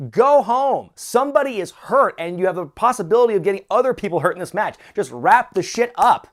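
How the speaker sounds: high, loud retold yell at the screen; exasperated shouting at the wrestlers to stop. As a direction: yell it as a fed-up viewer, voice pitched right up. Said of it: "I'm just yelling".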